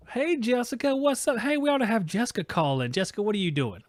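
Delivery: cheerful on-air shout-out; calling out. Real, not acted.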